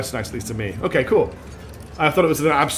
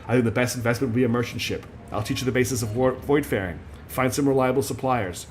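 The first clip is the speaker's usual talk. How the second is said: put-on Texas accent; 3 semitones lower, 3 dB quieter than usual. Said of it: "I can't do a Texan accent".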